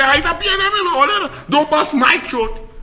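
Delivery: high-pitched mock plea; high mocking quote; pleading party supporter. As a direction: lightly mimic a begging supporter. Mimics party supporters begging.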